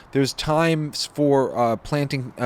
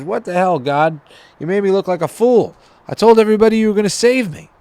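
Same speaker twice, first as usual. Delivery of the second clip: higher, louder furious complaint; a hammed-up indignant rant, higher and louder; outraged; 9 semitones higher, 7 dB louder than usual. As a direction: storm in and chew God out. Dead man confronts God, outraged.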